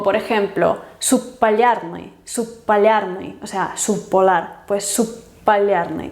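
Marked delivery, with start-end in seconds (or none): 1.0-3.4 slow "subpallarny" with bp held as one long p; long consonant. Shown as a demonstration. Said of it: "como un sonido más largo". 4.9-6.1 slow "subpallarny" with a held p closure; long P. Shown as a demonstration. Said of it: "como una P larga".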